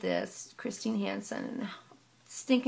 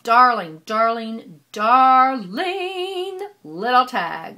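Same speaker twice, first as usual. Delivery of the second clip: louder, very slow gushing; gushing delight; 11 dB louder, much slower than usual. Real, not acted. Crafter cooing over Valerie's little tag, delighted. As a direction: coo over the tiny tag.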